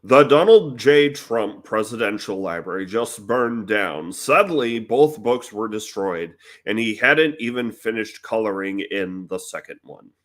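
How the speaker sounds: deadpan it like a news anchor; newsreader voice. Pretend. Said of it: "Newsreader voice".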